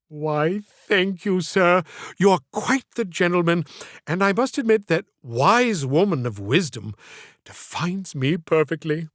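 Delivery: lightly voiced genteel old woman, coy; elderly Southern lady. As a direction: play the flattered old lady asking sweetly.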